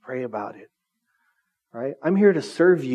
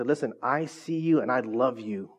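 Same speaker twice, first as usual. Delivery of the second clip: sincere love; 3 semitones lower than usual. Retold or imitated. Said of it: "when you love somebody to say".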